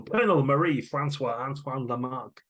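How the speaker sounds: a light hint of thick Glaswegian on the French name; thick Glaswegian accent. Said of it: "in a thick Glaswegian accent".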